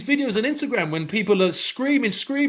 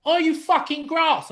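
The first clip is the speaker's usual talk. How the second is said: retold challenge; 8 semitones higher than usual. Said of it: "she's like".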